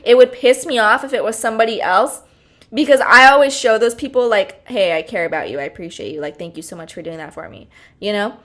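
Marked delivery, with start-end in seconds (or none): 4.7-7.7 softly mimicking her own kind words; a soft, gentle little thank-you; sweet caring quote. Shows people sweet caring voice.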